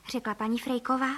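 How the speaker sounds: usual speaking voice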